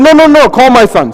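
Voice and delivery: impatient call for the right son; insistent. Acted. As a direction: brush them off and demand the son. Insistent repeated command.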